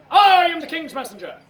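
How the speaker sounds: high, loud herald's announcement; proclaiming. Acted. Messenger introduces herself to Banquo, loud proclamation. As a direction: declare it grandly, starting big.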